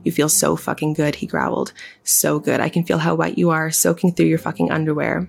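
sultry audiobook reading; story narration. Acted. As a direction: read it like a steamy audiobook. Reads erotic fiction aloud.

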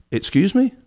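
high rising disbelief; mock-shocked question to dad; incredulous. Son balking at dad's roof chore, incredulous.

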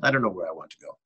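lightly imitated Frenchman's French accent. Cinematographer unsure where to go, French accent. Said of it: "but in his French accent".

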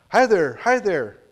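put-on high, loud, slow baby babble; baby answering. Baby copying the old man's greeting, high slow babble. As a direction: echo it back like a delighted baby. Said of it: "Eric continued to laugh and to answer".

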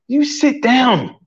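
slow, high mock command to his wife; a pretend stern husband, slow and high; mock bossy order. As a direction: playfully lord it over her. Bossing wife jokingly, far voice.

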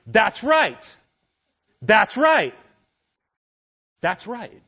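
high, mock-tearful cry of agreement; imitated tearful affirmation. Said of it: "saying out loud, in between, like, breaths of crying".

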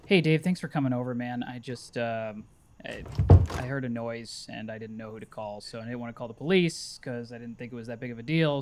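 subdued, halting thanks to a near stranger; awkward grateful neighbor. Acted.

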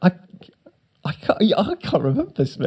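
whispered aside. Real, not acted. Aside while trying to remember.

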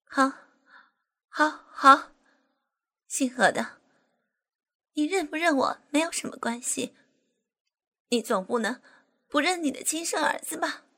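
high, loud and bitter; bitter resentful. Acted. Furious wife confronting her former lover over their son. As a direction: spit it at the man who denied her. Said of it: "恨恨地说".

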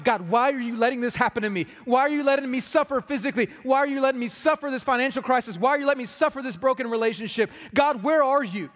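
a hint of anguished protest; angry at God. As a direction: voice a hurting listener crying out at God. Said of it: "you're angry with God".

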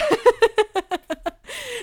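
high, loud burst of laughter; real high cackle. Real, not acted. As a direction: burst out laughing at your own mess. Host laughs at her own story.

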